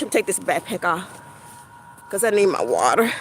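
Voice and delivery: winded, low and hurried aside; out of breath. Real, not acted. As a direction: talk quickly and low while short of breath. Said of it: "let me just catch my breath".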